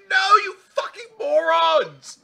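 screaming, high and loud, full rage; furious royal shout. Acted. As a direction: bellow the execution order like a mad queen. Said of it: "It's like".

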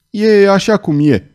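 high, loud snap; snapping. A narrator's reading. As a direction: cut her off sharply. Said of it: "se răsti Claude".

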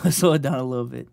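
laughing through the words. Real, not acted. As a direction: giggle it out fast.

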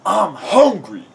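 slow, loud, high whine; hammed-up hungry groan; Riley. A narrator's reading. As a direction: groan it out, dragging the words. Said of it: "Riley groaned".

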